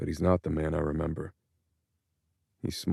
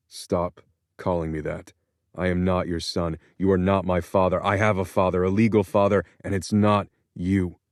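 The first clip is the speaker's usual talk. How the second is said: rising anger; 4 dB louder than usual. Acted. Son rejects being called son.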